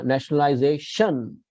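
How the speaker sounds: nationalization leaning on "za", with a soft "shun"; stress before soft shun. Shown as a demonstration. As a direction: stress "za" in nationalization and let "tion" fall softly. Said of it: "shun इतना soft होना चाहिए".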